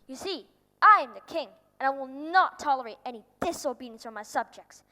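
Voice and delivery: loud, firm decree; stern royal proclamation. Acted. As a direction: proclaim it like an offended king. King asserts his authority.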